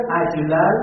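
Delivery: slow, careful عجلن with each syllable separated; drawn-out ajlalan. Shown as a demonstration. Teacher slowly sounding out a word for students, careful. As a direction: spell out عجلن slowly for the class.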